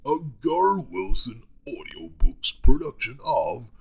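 slow, weighty trailer announcer; trailer guy voice. Shown as a demonstration. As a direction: draw it out like a movie trailer. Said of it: "my trailer guy voice".

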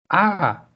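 short sharp cry of pain; a quick yelp as he slips; mild narrated yelp as his foot slips. A narrator's reading. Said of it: "él gritó".

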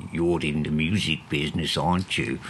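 imitated South African accent, lightly done. Nurse approaching a patient in detox, mock South African accent. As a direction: put on a touch of South African. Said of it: "That's my white South African accent".

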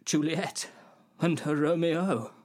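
dismayed, faltering insistence; earnest disbelieving appeal. Acted. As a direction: plead for the love story piece by piece. Pleading the tragedy's grandeur, in disbelief.

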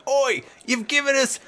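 put-on high cockney child complaining; kid voice. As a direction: whine like a cheeky kid. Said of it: "One of the kids is like".

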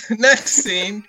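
laughing through the words. Shown as a demonstration. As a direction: giggle out the phrase. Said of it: "I'll tell you about next scene".

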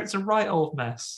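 high-pitched mock indignation; scold, comically put out; livid. Lestat scolds over the mess left behind, livid. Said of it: "he's livid".

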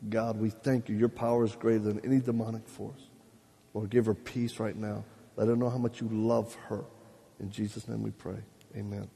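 low, hushed intercession; earnest prayer. Real, not acted. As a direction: pray it softly, sinking to a quiet amen. Leads a short prayer.

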